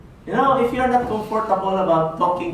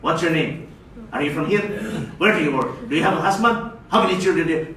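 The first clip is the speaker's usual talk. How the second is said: policeman; 4 semitones lower than usual. Shown as a demonstration. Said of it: "don't ask like a policeman".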